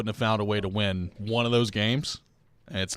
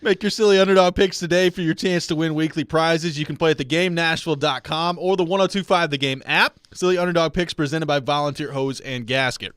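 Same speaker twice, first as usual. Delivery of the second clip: upbeat radio promo read; 3 semitones higher than usual. Acted. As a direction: sell it like a radio ad. Reads sponsored promo.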